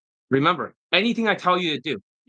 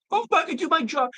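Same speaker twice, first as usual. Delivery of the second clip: much higher falsetto whine, mocking; whiny mockery; 12 semitones higher than usual. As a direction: whine it like an offended crybaby. Mocking critic's excuse.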